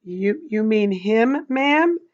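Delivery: slow, gentle, rising ask; boy gently checking with frightened teacher; gentle question. Acted. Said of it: "and he said gently".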